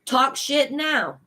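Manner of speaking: slow, drawled Cajun grandpa line; grandpa's Cajun accent. Retold or imitated. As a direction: channel an old Cajun grandpa, slowly. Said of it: "my accent changes too when I channel what my grandpa says".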